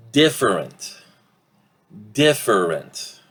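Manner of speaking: "different" in three syllables, DIF-er-ent; full pronunciation. Shown as a demonstration. Teacher shows the word before reduction, "different" in three full syllables. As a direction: say every vowel of "different", unreduced. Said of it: "how do you think this will sound?".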